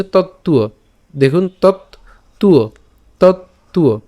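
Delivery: তত্ত্ব said as tot-tuo, doubled t then uo glide; careful pronunciation. Shown as a demonstration. Teacher modelling তত্ত্ব for students. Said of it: "উচ্চারণটা কেমন হচ্ছে?".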